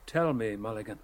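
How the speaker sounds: soft, low, subdued question opener; hushed and low-pitched; quiet. A narrator's reading. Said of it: "Stephen said quietly".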